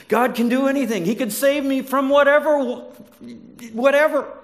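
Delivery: loud, high triumphant boast; hammed-up praise. Worshippers boasting of God's power, loud and high. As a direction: proclaim it big, mock-triumphant. Voicing people's bold praise.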